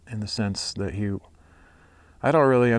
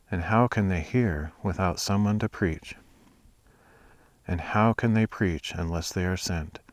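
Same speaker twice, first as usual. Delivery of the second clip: steady, earnest Bible reading; scripture reading. Acted. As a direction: read the passage aloud with care. Reads scripture aloud.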